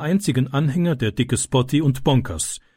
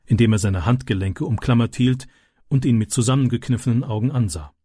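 usual speaking voice

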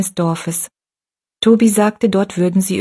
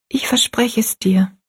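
whispered promise, a little higher; quietly; 4 semitones higher than usual. Acted. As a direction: promise it in a hush. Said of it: "sagte Rosalie still".

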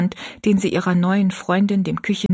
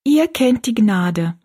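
the verse said slowly, feeling for each word; slow, puzzled reading of Ihr kennt die Gnade; slow and unsure; 4 semitones higher, 4 dB louder, slower than usual. Acted. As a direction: spell it out hesitantly. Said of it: "Ich bin mir nicht ganz sicher".

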